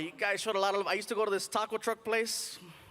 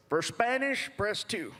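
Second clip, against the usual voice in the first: phone menu voice; slower than usual. Retold or imitated. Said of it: "Then he says this".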